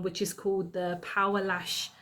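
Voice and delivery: flat robotic product name. Shown as a demonstration. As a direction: say it like a robot announcer. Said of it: "Don't know why I said it like a robot".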